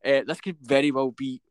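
echoey, like a big hall. Real, not acted. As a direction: sounds echoey in the room. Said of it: "why do I sound so echoey".

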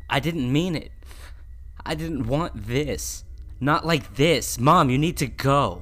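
high, very loud, desperate pleading; distraught shouted plea; anguished cry. Acted. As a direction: beg her to leave, crying out. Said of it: "I cried".

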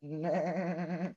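goat-like bleat on nah. Retold or imitated. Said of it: "You sound like a goat".

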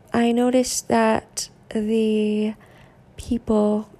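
flat monotone robotic delivery. Real, not acted. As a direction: speak like a robot. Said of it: "I'm talking like a robot right now".

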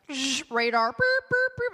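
high, loud beeping like a radar; radar beeping noise. Retold or imitated. Mock radar beeps as she spots an open fly. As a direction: beep out like a fly detector going off. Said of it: "I'll be like".

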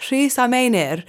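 Rhys a Meinir in Welsh sounds; Welsh pronunciation. Shown as a demonstration. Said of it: "I'm doing the Welsh accent for".

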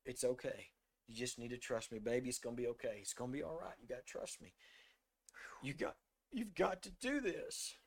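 put-on soft, low comfort in a child's ear; a retold murmur of comfort, not a true whisper; hushed reassurance. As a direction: hush and soothe a frightened little girl. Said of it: "I'm whispering in her ear".

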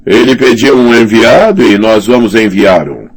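high, self-important lord's voice; pompous commander voice. Acted. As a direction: puff up like a bullying commander. Slint speaking.

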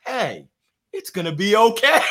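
a hint of The Rock, calm and laughing; lightly voiced The Rock. Quoting The Rock meme to the host, laughing lightly. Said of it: "a meme with The Rock where he says".

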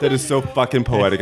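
laughing through the words; giggling while gushing; after laughing hard. Real, not acted. Overwhelmed by sloth poetry.

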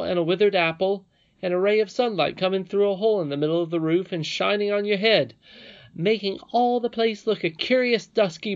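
put-on insistent boy listing what is really there; boy Curdie, exasperated. A narrator's reading. Curdie tells the princess what he sees, loud and emphatic.

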